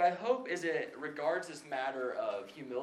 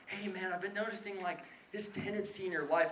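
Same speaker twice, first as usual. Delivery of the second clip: lightly voiced gentle concern, a touch softer; mock tactful gentleness; 4 semitones higher, 4 dB quieter than usual. Retelling how a tactful friend would gently raise a fault, mock gentle. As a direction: imitate the careful, kindly older friend. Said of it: "it's not very tactful".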